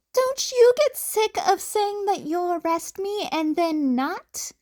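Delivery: snarled back. Acted. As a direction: snap it back defiantly. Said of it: "Izuku snarled back".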